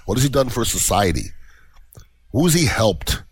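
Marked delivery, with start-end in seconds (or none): 2.3-3.2 whispered pointed question. Real, not acted. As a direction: whisper the jab. Pointed rhetorical jab.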